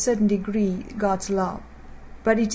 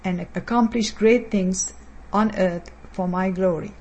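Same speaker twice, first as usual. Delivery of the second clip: speaking as God, measured and solemn; firm, solemn prophetic utterance to the church; prophetic word. Acted. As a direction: deliver a prophecy in the first person as the Lord. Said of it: "As the Lord has spoken".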